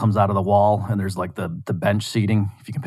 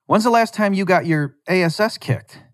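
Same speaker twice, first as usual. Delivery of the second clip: put-on higher, taunting teenage bully voice; cocky bully kid; 8 semitones higher than usual. Bully kid taunting Louis at the diner table, cocky and higher. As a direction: goad him into a fight.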